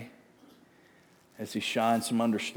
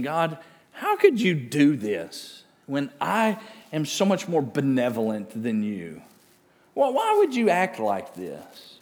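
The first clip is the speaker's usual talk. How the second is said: mildly acted challenge, raised in pitch; indignant questioning; 4 semitones higher, 5 dB louder than usual. Preacher voicing Job's complaint to God, indignant. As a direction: question God in protest, falling off midway.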